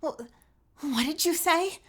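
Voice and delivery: put-on high, startled girl's voice, no crack; the retake without the crack; clean retake. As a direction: try the gasp of shock again, smoothly. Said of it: "Let's try that again".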